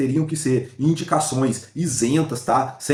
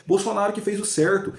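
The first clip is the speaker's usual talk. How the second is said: pitched higher, insistent; emphatic claim; 6 semitones higher than usual. Real, not acted. Vlogger defending Bolsonaro to viewers, pitched higher. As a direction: push it up high to insist.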